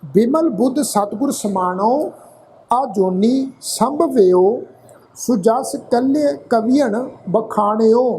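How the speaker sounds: slow, drawn-out chanted reading of the verse; slow scripture recitation. Acted. Teacher reciting scripture to the congregation, slow and chanted. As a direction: intone each line slowly like a hymn.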